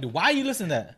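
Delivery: high-pitched, baffled protest; mock incredulity. Host questions people who love ghost stories, mock incredulous. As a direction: question them in exaggerated disbelief.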